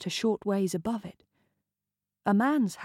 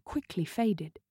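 ordinary delivery

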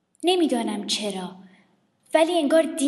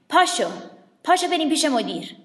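teacher shouting; 4 semitones higher, 5 dB louder than usual. Acted.

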